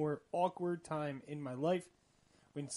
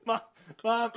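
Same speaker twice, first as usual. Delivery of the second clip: loud imitation of a child's cry; mock hysterical crying; 6 semitones higher, 8 dB louder than usual. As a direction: call out like a pleading kid. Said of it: "hysterically crying".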